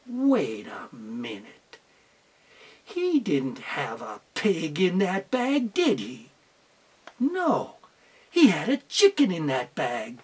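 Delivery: low, slow musing to herself; teacher thinking aloud. Acted. Teacher working out the fox's trick, low and slow. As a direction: puzzle it out quietly, half to yourself.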